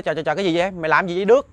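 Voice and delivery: acted-out startled father's question; alarmed exclamation. Father demanding of Đức what he is doing, alarmed. Father cries out at his son.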